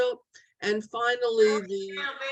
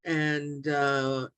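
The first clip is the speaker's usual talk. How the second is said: low, softer repeated false start; distracted stammering; 5 semitones lower, 3 dB quieter, slower than usual. Real, not acted. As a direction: trip over the word, stalling for time. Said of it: "I'm stuttering here because".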